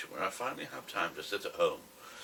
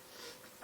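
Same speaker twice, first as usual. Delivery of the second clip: smoker's cough; 15 dB quieter than usual. Real, not acted. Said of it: "Excuse the cough, I smoke".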